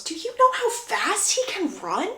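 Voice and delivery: lightly acted self-excusing protest; defensive shrug. Brother excusing himself to his mother, defensive and incredulous. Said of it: "shrugs his shoulders and goes".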